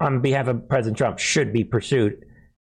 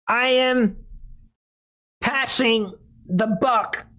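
high, whiny fake-tearful whimper; mock crying voice; 9 semitones higher than usual. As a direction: ham up a weepy confession. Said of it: "she aided and abetted".

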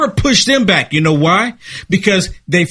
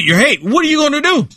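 taunting neighbour; 7 semitones higher than usual. Retold or imitated. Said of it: "You're gonna be".

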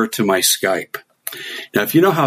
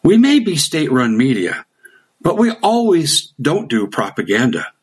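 Russian message; 5 semitones higher than usual. Retold or imitated. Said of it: "And they said".

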